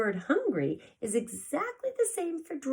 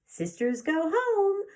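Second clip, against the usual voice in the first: put-on cried the baby; 9 semitones higher, 5 dB louder than usual. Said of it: "cried the baby".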